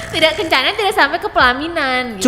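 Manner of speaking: laughing. Real, not acted. Joking after laugh.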